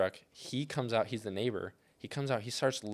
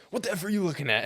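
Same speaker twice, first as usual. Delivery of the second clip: imitating a neighbor's angry yell, pitched much higher and louder; mock the neighbor snapping at the guys, high and loud; retold yell; 10 semitones higher, 5 dB louder, faster than usual. Retelling the racist neighbor yelling at my staring crew, imitated high, loud yell.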